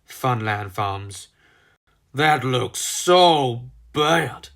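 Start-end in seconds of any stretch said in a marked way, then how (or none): 2.1-4.5 shocked. Acted. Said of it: "said a shocked Rocky".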